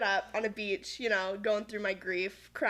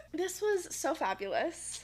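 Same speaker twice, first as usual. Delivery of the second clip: laughing; 5 semitones higher, 3 dB quieter, slower than usual. Real, not acted. Laughing at end of podcast.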